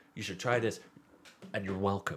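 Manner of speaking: put-on weird, odd, nearly American accent. Retelling a whiskey seller's catchphrase: weird, nearly american accent. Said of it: "like that".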